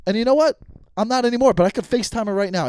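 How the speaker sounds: loud, heated rant; getting mad. Real, not acted. Host insisting he could FaceTime her right now, mad. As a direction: raise your voice, worked up. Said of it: "I'm sorry to get mad".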